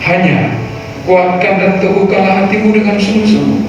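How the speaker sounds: solemn Bible reading over music; scripture reading. Acted. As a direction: read scripture with weight. Reads scripture aloud. (pembacaan Alkitab yang khidmat)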